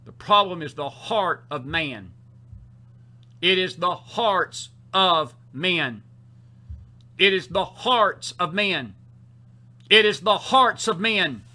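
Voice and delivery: slow, deliberate refrain with punched words; emphatic preaching. Real, not acted. Preacher pressing a refrain on the congregation, emphatic preaching. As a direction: drive the point home, word by word.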